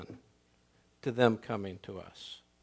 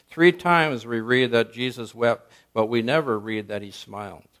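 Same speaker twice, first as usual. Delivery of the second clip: stern preacher exclaiming; 7 dB louder than usual. Retold or imitated. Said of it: "He exclaimed".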